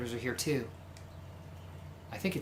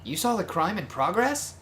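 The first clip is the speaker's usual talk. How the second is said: flamboyant charmer voice. Acted. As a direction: greet them like a dashing flirt. Voices Yuya.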